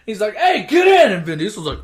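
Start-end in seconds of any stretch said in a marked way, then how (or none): 0.4-1.1 high, loud imitated call; urgent mock shout. Driver pulls up to the runner, high urgent mock shout. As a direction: call out urgently, pitch jumping up.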